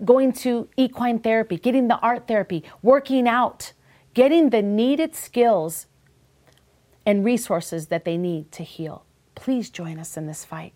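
closing charity appeal read. Acted. Host reads a charity appeal to listeners, sincere ad read. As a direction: ask listeners to donate, earnestly.

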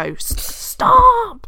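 sharp high yell of stop; imitated shout. Granddad at the table, imitated as a sudden high loud yell. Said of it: "he would sometimes bang on the table and go".

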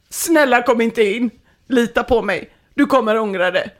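high mock begging that eases off; acted pleading. Begging the girlfriend to stay out, acted plea. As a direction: plead urgently, hammed up a little. Pleading again through the door.

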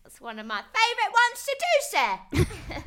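high, loud Cockney caricature; exaggerated Cockney squeal; over-the-top Cockney. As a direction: belt it out as a hammed-up Cockney urchin. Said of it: "spoke with that voice".

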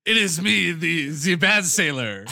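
mock-menacing entrance. Bad cop bursting through the door, mock-menacing announcement.

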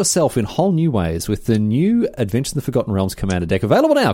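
upbeat announcer read. Acted. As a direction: sell it like a commercial. Sponsor read.

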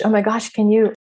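oh my gosh said aloud and eager; voiced excited. Woman gushing at Picasso.

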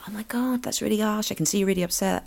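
high, soft, sympathetic coo; soothing mum. Shown as a demonstration. Mum comforting her upset teenager, high soft sympathy. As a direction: soothe them gently, up high. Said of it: "And you have to go".

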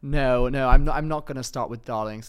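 mock-posh second thoughts; Charlotte Tilbury. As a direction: correct yourself as a posh presenter. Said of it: "Then she was like".

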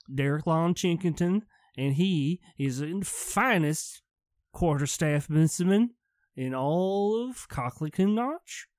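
a puffed-up knight; pompous guard. Acted. GM voicing NPC guard.

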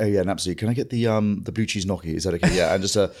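a lightly voiced posh toff ordering wine in a restaurant; a hint of a posh comedian ordering dinner; posh Jack voice. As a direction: order like a languid upper-class diner. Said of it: "when I'm with, uh, Jack, I'm like".

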